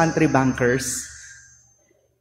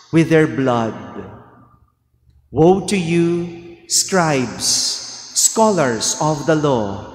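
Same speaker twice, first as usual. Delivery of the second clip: Gospel reading; 2 semitones lower than usual. Acted. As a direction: read it like scripture at Mass.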